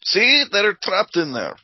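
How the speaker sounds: high, loud I-told-you-so; urgent exclamation. Acted. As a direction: call it out in alarm to the guard. Player urges guard after hearing screams.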